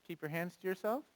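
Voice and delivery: calm response, not a reaction; gentle calm command. Shown as a demonstration. Parent calmly telling a child, softly. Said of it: "speak gently and calmly".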